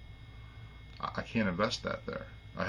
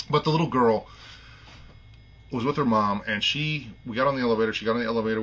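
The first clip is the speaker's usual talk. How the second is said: getting emotional; 3 semitones higher, 5 dB louder than usual. Real, not acted. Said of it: "I'm gonna get a little emotional".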